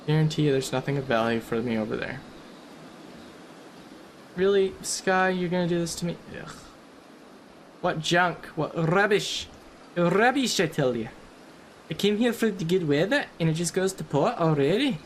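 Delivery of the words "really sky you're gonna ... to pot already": a hammed-up Scottish grumble about the weather; terrible Scottish accent. Gamer grumbling at the sky in a mock Scottish accent. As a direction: moan about the weather in a bad Scottish brogue. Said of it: "that's my very terrible Scottish accent".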